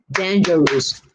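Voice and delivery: "Dangerous" measured out in three beats; syllable by syllable. Shown as a demonstration. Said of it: "Three syllables".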